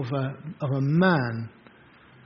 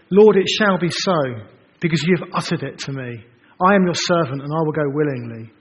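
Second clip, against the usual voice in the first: louder, archaic solemn vow; solemn obedient reply; 5 dB louder than usual. Pretend. Preacher voicing a willing Moses, loud and solemn. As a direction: pledge it like a noble servant.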